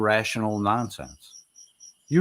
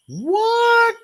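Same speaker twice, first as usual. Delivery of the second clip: incredulous what; 4 dB louder than usual. Real, not acted. Incredulous at deployment claim.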